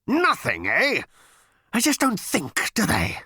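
high, loud, indignant outburst; furious battle machine. A narrator's reading. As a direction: rage in a put-on machine voice. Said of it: "The machine heaved about with fury".

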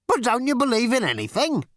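very high, incredulous question; exasperated outcry. A narrator's reading. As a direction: wail it out in angry disbelief. Zarniwoop quivering with anger, protests.

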